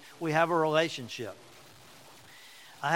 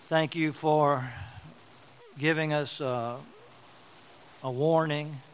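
prayer. Acted. Closing prayer.

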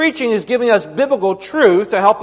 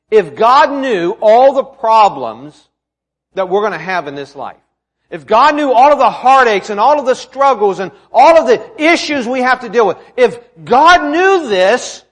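emphatic preaching; 4 semitones higher, 7 dB louder than usual. Acted. Preacher posing people's hard question about God, emphatic. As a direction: build the question point by point.

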